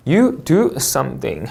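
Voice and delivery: slow, falling close on "something"; falling intonation. Shown as a demonstration. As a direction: drop "something" to end it. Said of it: "하고 내려 읽는 거". ("something" 끝을 내려 읽기)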